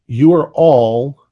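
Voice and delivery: slow, emphatic narration; game master scene setting. Acted. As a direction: address the players slowly, pausing between phrases.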